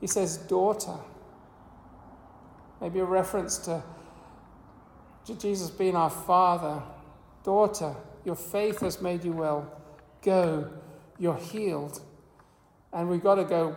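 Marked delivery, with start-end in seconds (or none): 0.4-1.0 tender. Retold or imitated. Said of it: "replies very, very unexpectedly". 7.4-12.0 tender. Retold or imitated. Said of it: "replies very, very unexpectedly".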